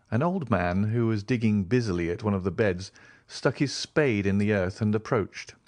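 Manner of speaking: plain reading voice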